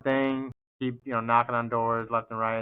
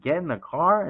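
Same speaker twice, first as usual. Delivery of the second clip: higher questioning repeat, rising at the end; incredulous echo; 5 semitones higher than usual. Retold or imitated. Salesman answers the cop's order, incredulous echo.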